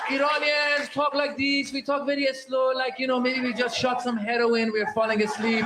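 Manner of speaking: put-on drawn-out, drowsy Iranian accent; slow Iranian talk. Comedian mimics Iranians falling asleep, slow and drawn out. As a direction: talk as if nodding off mid-sentence. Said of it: "they talk a lot slower".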